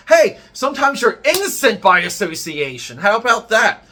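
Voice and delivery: loud, high, worked-up rant; wild unhinged ranting. Real, not acted. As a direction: rant it at full heat. Heated rant about Ed Piskor.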